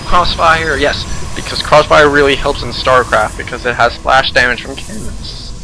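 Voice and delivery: sarcastic fake approval. Real, not acted. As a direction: praise it as if you mean the opposite. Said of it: "you probably caught the sarcasm there".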